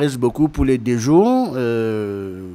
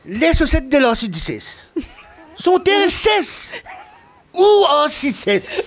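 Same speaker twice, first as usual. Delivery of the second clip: high, slow, declaimed Parisian poetry, laughing through it; poetic French accent; 11 semitones higher, slower than usual. Pretend. Guest reads a tongue twister in mock poetic French, laughing. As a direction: recite it like a hammed-up French poet. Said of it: "français poétique".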